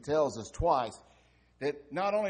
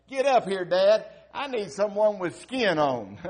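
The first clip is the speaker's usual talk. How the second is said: louder, higher demanding yell; boy yelling back; 5 semitones higher, 11 dB louder than usual. Retold or imitated. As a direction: yell for Dad to come up. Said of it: "the little boy yelled back up".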